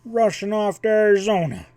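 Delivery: high, loud, scornful; indignant scorn. A narrator's reading. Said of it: "Indignant scorn rang in the words".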